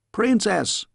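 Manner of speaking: high, booming call of the title; thundering call. A narrator's reading. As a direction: thunder it through the door. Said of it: "thundered a voice outside her door".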